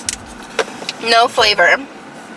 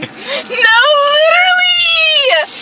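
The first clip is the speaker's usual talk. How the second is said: high, laughing shout of agreement; excited shout; much slower than usual. Real, not acted. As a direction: burst out laughing with "literally".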